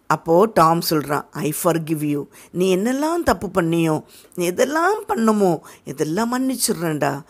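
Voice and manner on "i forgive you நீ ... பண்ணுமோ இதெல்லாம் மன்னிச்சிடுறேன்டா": dying man's words. Acted. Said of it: "ஒரு சாகுற ஆள் என்ன சொல்லுவாங்களோ".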